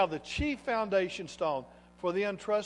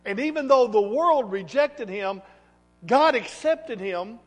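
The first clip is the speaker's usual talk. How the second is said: raised, higher preaching voice; emphatic preaching; 4 semitones higher, 8 dB louder than usual. Acted. Preacher declares God accepted Jesus to congregation, emphatic preaching. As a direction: proclaim it loudly, leaning on key words.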